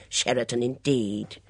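mock the claim, disbelieving; scornful. Scorn at liar neighbour.

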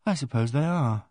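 thoughtful. A narrator's reading. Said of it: "I said thoughtfully".

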